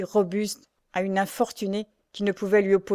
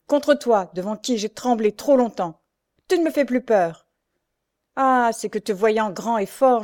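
somewhat raised, emphatic defiance; defiant exclamation; 2 semitones higher, 4 dB louder than usual. Acted. Pierre no longer afraid of his brother, defiant exclamation. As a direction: stand up to a bully, openly defiant. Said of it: "s'écria-t-il".

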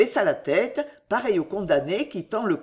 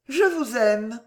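higher voice, sincere and unadorned; simple declaration; 5 semitones higher, slower than usual. A narrator's reading. Woman daring to confess her love, very simply. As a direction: say it simply, as plain truth. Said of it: "Et très simplement".

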